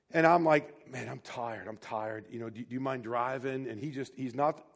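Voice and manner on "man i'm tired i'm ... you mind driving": low, soft, worn-out mumble; acted weariness. Tired driver asks his friend to take over, weary. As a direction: sound drained, asking a favor.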